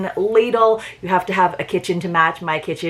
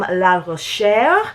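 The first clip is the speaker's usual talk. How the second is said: French accent; much slower than usual. Shown as a demonstration. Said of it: "I try to do my best French accent for you".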